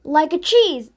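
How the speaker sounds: heroic declaration. Acted. Boy's heroic challenge.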